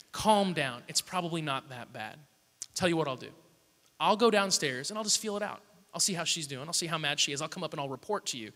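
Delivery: soft, lightly voiced soothing offer; calming reassurance. Wife offering to check on mum for Aaron, imitated reassurance. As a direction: talk him down gently and quietly.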